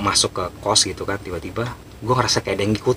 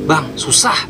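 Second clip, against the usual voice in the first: higher-pitched mock protest; retold helpless complaint; 7 semitones higher, 4 dB louder, much slower than usual. Awili tells bang the drawing is hard, helpless complaint. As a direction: complain that it's too hard.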